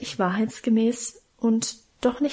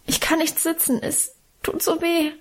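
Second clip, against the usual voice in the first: put-on higher, a mild childlike whine; whimpering; 6 semitones higher than usual. A narrator's reading. The girl tells the aunt she cannot sit, mildly whining. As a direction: plead the pain like a small child, understated. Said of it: "jammerte ich".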